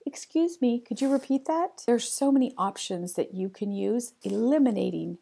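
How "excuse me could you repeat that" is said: polite confident ask. Shown as a demonstration.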